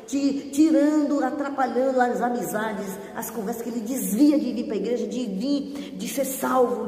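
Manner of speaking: fervent deliverance prayer, rebuking demons; preach. Acted. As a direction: pray it out with rising fervour. Deliverance prayer over viewers.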